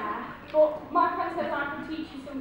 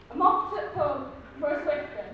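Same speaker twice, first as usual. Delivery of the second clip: English accent demo. Shown as a demonstration. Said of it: "thick English accent".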